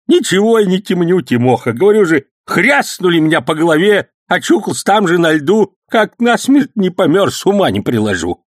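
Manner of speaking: put-on high, loud excited old man's story; heated old man. A narrator's reading. Old man heatedly telling the policeman about the attack. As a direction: rattle it off fired up.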